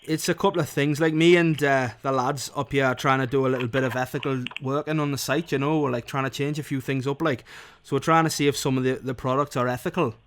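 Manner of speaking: Geordie. Pretend. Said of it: "Now you're Geordie".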